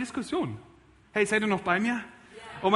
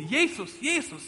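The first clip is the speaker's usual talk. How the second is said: imitated calling out; 6 semitones higher than usual. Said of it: "So rufen sie".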